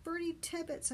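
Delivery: high, called-out answer; mild shout in reply; shouting back. A narrator's reading. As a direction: call the name back across water. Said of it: "I shouted back".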